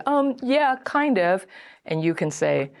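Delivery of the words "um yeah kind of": higher-pitched noncommittal hedge, falling away; hesitant admission. Acted. Date asked whether this is a date, hesitant admission. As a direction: imitate an unsure, reluctant yes. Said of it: "they can say".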